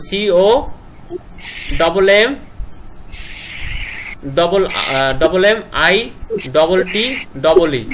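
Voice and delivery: সি ও, ডাবল এম, আই, ডবল টি, ডবল ই; sounding out words. Shown as a demonstration. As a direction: spell কমিটি letter by letter. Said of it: "এইভাবে পড়বা".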